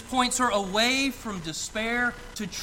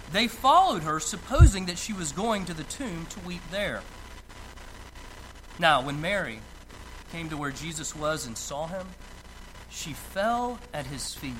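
solemn scripture reading; 3 semitones lower than usual. Acted. Preacher reads the Gospel to his congregation, solemn and measured.

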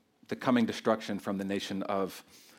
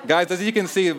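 laughing; 5 semitones higher, 5 dB louder than usual. Real, not acted. Preacher laughs at own tangent.

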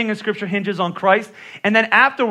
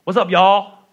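imitating his wife's Southern "y'all"; slower than usual. Pastor imitating his wife greeting folks, light Southern drawl. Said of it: "My wife says".

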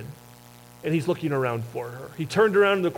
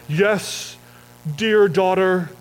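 preachy Jesus; 3 semitones higher, 4 dB louder, slower than usual. Pretend. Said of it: "He doesn't say".

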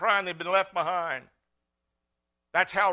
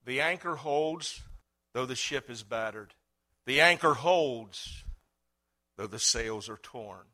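read the chorus; 3 semitones lower than usual. Shown as a demonstration. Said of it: "I just want to read the chorus".

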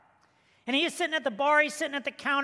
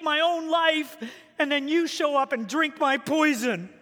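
higher and louder, fast, piling up woes to the punchline; hammed-up despairing guy venting at the bully; comic wail of a man at his worst; desperate man; 4 semitones higher, 4 dB louder than usual. Desperate man voiced in joke.

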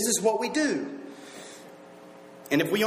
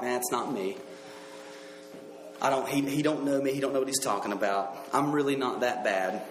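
dismissive denial; 7 semitones lower, 4 dB quieter than usual. Acted. Voices listener dismissing the verse.

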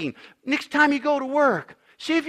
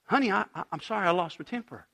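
soft apology; 3 semitones lower, 7 dB quieter, faster than usual. Retold or imitated. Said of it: "You never hear them say".

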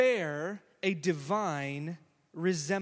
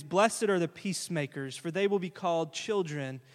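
scripture reading; 3 semitones lower than usual. Real, not acted. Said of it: "tonight's beatitude is".

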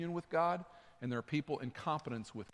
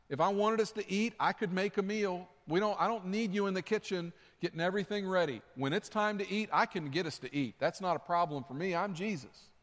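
Jesus to Martha; 4 semitones higher than usual. Acted. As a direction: speak as Jesus, firm but kind. Preacher voices Jesus scolding Martha.

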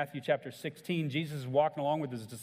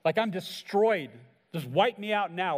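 slow, stricken cry of woe; anguished lament; 2 semitones higher, 4 dB louder, slower than usual. Retold or imitated. Preacher voicing Isaiah before God, a stricken lament. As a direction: voice a man undone before God. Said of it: "this same tone of Isaiah".

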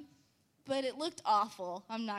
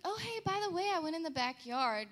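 fake casual; 6 semitones higher, faster than usual. Casual confession quoted.

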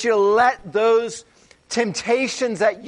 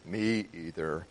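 low, mopey donkey voice; a flat droop of a sad donkey; gloomy Eeyore; 13 semitones lower, 11 dB quieter than usual. Retold or imitated. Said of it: "And he says".

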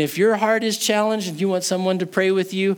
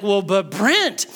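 high, agitated objecting listener; tense objection; 10 semitones higher, 4 dB louder than usual. Acted. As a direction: protest with rising urgency, pitched well up. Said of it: "the tension that you're having".

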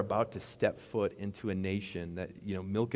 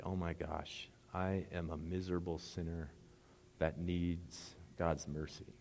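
low, hushed admission of guilt; humbled confession; 4 semitones lower, 10 dB quieter, slower than usual. Acted. Sinner admitting need for God's mercy, hushed and humbled. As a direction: confess it softly, slowing toward the end.

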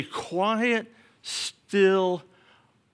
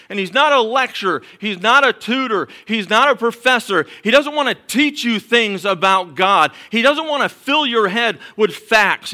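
preaching at full force; 3 semitones higher than usual. Acted.

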